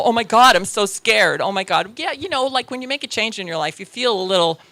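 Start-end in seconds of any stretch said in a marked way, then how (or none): 0.0-2.0 mock scared. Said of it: "a situation and go".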